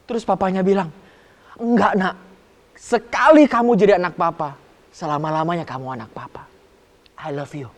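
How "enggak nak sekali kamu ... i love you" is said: reassure, ending in a gentle I love you; tender father. Acted. The father telling his son he is always his child, tender.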